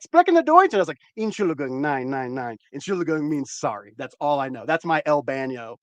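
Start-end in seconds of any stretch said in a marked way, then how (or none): 0.0-0.7 put-on German girl. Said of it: "she's like". 1.2-2.6 softer apologetic German; German accent. Retold or imitated. Telling friend how he answered her, German accent. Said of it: "you even had the accent there".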